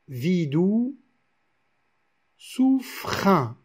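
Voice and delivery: "Vidou, souffrin" joined with the E dropped; poetic linking. Shown as a demonstration. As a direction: run "Vidou" and "souffrin" together, no mute E. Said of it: "on va dire vidou".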